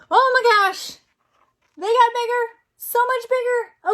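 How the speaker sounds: high, loud pretend amazement; mock amazement. Parent reacting to bigger dots, amazed. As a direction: wow the child.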